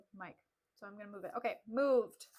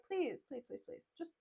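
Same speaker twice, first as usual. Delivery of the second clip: soft, coaxing repeated pleas; mock gentle; 5 semitones higher, 6 dB quieter than usual. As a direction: imitate soothing a bride, hushed. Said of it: "turn back to her and be like".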